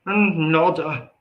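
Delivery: "nada" drawn out slow and high in a country accent; country-accent Spanish. Shown as a demonstration. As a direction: stretch "nada" like a twangy country speaker saying Spanish. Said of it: "that country accent".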